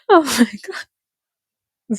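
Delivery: slow, laughed-out exclamation; helpless laughter. Real, not acted. Host overcome by the interview, helpless laughter. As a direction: gasp it out through laughter.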